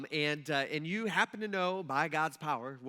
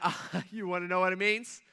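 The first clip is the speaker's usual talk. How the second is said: louder, smug mock taunting; smug gloat; 4 dB louder than usual. Imagined Daniel taunting the king, loud smug gloating. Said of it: "you're like".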